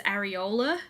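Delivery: areola said like the body-part word; mum's mispronunciation. Retold or imitated. Telling viewers how mum misreads the name, areola mispronounced. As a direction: say areola as mum mistakenly says it. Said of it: "My mum always says".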